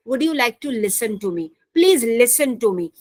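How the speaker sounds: slow, careful model sentence with listen; slow demo of the listen request; slow example sentence. Shown as a demonstration. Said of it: "या फिर".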